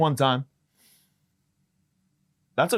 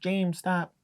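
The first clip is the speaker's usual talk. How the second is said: mock shushing parent; 6 semitones higher, 4 dB quieter, much slower than usual. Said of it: "We're like".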